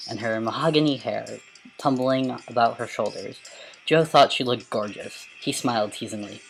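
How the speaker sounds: dramatic storybook reading; story narration. A narrator's reading. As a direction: read it like a novel aloud. Reads a story aloud.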